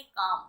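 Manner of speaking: काम said "kaam" with the L silent; teacher gives the right way, L silent; correct pronunciation. Shown as a demonstration. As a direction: say काम as "kaam", no L sound at all. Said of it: "इसे काल्म नहीं बोलेंगे".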